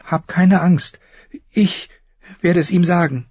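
high woman's voice, reassuring; comforting. A narrator's reading. Mistress to her frightened maid, high comforting voice. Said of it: "tröstete es".

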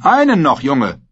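high, loud encouraging call. A narrator's reading. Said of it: "rief Tyrion".

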